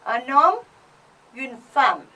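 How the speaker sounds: un homme, une femme read slowly and clearly; model reading. Shown as a demonstration. Teacher reads French words for students to repeat. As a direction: read it out for the class to copy. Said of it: "You can repeat after me".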